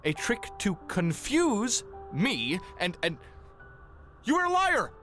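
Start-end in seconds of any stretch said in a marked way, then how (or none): 4.2-4.9 high, loud outraged cry; furious accusation. Acted. Reverend accuses self-declared witch of lying, furious. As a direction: hurl the accusation, voice leaping up.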